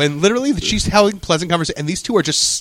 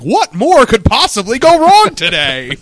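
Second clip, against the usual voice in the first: exasperated; 8 semitones higher, 7 dB louder, slower than usual. Retold or imitated. Exasperated imagined Oliver.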